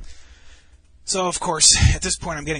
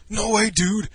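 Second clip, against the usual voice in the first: put-on drunken denial; 7 semitones higher, 5 dB louder, slower than usual. Acted drunk friend denying it.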